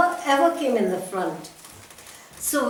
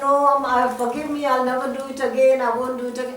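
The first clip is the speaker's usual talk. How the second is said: hurried mock plea for forgiveness; pleading; faster than usual. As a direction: rattle off a beaten man's apology, imitating him. Beaten man begs forgiveness.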